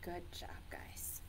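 soft whispered praise; whispering. Real, not acted. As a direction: whisper it kindly. Praising children softly.

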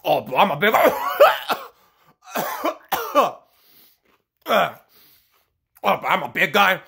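a slow, dragged-out imitation of a big man; mock big-guy voice. Mocking the wrestler, a lightly voiced slow big-guy. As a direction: ham up the dumb big guy, slowly. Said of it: "Look at me talk like this, Hulk".

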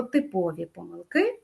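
"типові" stressed on ПО; stress on middle syllable. Shown as a demonstration. Teacher explains recurring mistakes, "типові помилки" with ПО stressed. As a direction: put the weight on ПО in "типові". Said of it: "залежить від значення слова".

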